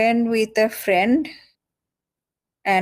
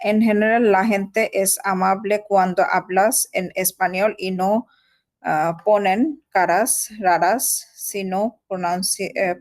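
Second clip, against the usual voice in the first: slow, careful learner's reading; halting reading aloud; much slower than usual. Real, not acted. Learner reading Spanish text to tutor, slow halting reading. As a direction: read word by word, with stumbles and restarts.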